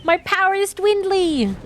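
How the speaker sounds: over-the-top high-pitched despair; melodramatic wail. Pretend. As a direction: wail it like a doomed villain. Exaggerated repeat of the mock lament.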